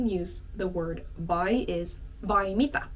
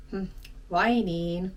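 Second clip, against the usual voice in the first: disappointed. Shown as a demonstration. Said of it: "It sounds a bit disappointed".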